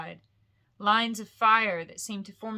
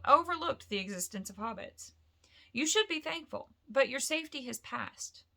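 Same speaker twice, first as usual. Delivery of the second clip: lightly voiced Gandalf; 4 semitones higher than usual.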